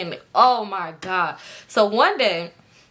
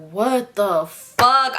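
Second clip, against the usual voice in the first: drawn-out, stunned what the fuck; slow disbelief; 3 semitones higher, 3 dB louder, much slower than usual. Retold or imitated. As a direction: drag it out in shock. Her own disbelief, retold.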